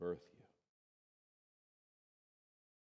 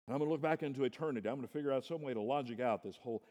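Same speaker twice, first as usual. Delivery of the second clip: mock schemer; 6 semitones higher, 7 dB louder, much faster than usual. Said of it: "we want to have formulas".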